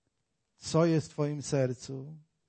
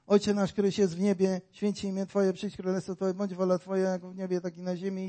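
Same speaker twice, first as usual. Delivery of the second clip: rote recitation; faster than usual. Retold or imitated. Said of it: "ludzie przychodzą do Boga i recytują".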